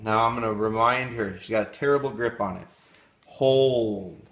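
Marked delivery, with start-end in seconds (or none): 3.3-4.2 loud firm hold command; loud dog command. Real, not acted.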